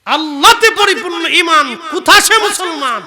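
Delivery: high, very loud verse cry; impassioned recitation. Real, not acted. Preacher repeats the poet's verse to the crowd, shouted. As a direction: fling the question out to the crowd at full voice.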